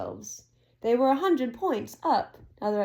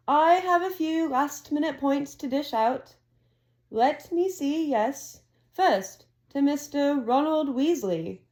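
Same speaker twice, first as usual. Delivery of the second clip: lightly raised headmaster voice, measured; a hint of a ceremonious headmaster; Dumbledore announcing; 5 semitones higher, 3 dB louder than usual. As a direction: announce the scores like a proud old wizard. Dumbledore awarding points.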